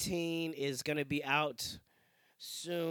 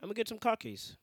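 higher-pitched, hammed-up British chap; mock British accent; 5 semitones higher, 3 dB louder than usual. Chap off to the pub for khakis, mock British accent. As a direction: improvise a silly British bloke. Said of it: "British people might say car keys".

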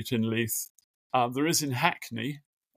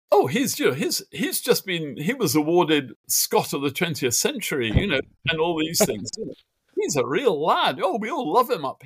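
put-on Scots accent; 3 semitones higher than usual. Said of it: "my appalling accent".

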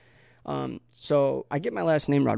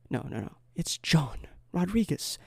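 mock whispered thought; 3 semitones higher, 5 dB quieter than usual. Voices woman's thought, correcting the name.

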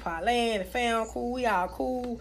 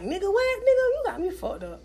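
mean snap; 8 semitones higher than usual. Retold or imitated. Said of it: "I used to be mean".

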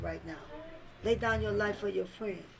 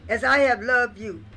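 said slowly; 8 dB louder than usual. Shown as a demonstration. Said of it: "I'm gonna say it slowly".

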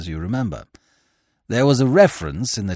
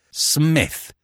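startled cry; 6 semitones higher than usual. A narrator's reading. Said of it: "I cried reproachfully".

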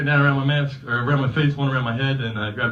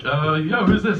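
confused answer; 3 semitones higher, 4 dB louder, slower than usual. Retold or imitated. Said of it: "And I'm like".

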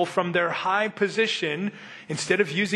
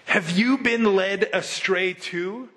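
mocking; 3 semitones higher, slower than usual. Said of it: "the Pharisees mocked".

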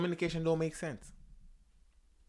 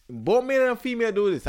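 higher and louder, pressing the point on both sexes; emphatic; 10 semitones higher, 9 dB louder than usual. Real, not acted. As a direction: lay it down loud for everyone. Emphatic opening claim about both sexes.

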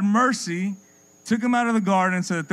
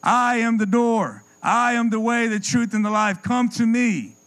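Jesus inviting; 4 semitones higher than usual. Acted. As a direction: call them in like a shepherd. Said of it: "his son came and said".

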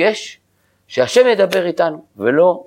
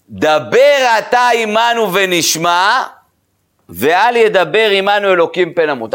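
slow, raised recitation of a verse; קריאת פסוק; 5 semitones higher, slower than usual. A narrator's reading. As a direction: declaim it slowly and high, like scripture. Reading out a quoted verse. (קריאת פסוק חגיגית ואיטית)

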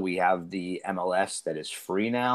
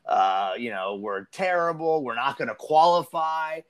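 higher-pitched mock panic of doomsaying fans; lightly panicked quote, pitched up; imitated panic; 5 semitones higher than usual. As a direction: mimic fans giving up in despair. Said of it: "People are freaking out, panicking".

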